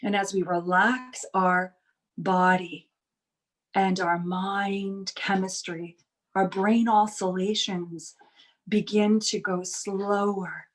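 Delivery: measured meditation guide with long pauses between phrases; guided meditation. Real, not acted. Teacher easing workshop group into relaxation, guided meditation. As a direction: lead them into calm, unhurried, lingering on key words.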